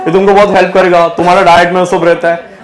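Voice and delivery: lightly mimicked gym guy selling supplements; hint of a know-it-all trainer's sales patter; gym trainer pitching protein. Gym trainer lecturing teacher on nutrition, lightly mimicked pitch. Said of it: "वो मुझे nutrition पढ़ा रहा था".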